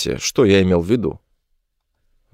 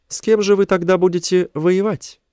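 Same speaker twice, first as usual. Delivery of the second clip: high-pitched creature question; high, puzzled alien leader; alien chief; 10 semitones higher than usual. A narrator's reading.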